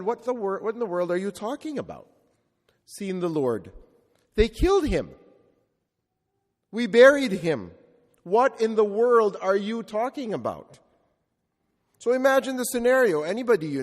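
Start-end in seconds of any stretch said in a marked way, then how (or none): 0.0-10.8 incredulous Thomas. Retold or imitated. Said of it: "I imagine Thomas would have said".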